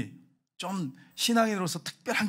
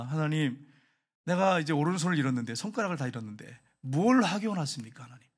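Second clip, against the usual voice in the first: humble prayer. Acted. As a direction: ask God submissively, without protest. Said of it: "하나님 뜻을 찾는 거예요".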